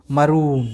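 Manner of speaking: मरून with a long drawn-out oo; long oo sound. Shown as a demonstration. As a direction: hold the oo in मरून. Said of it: "यार ओ का sound कितना ज़्यादा आया".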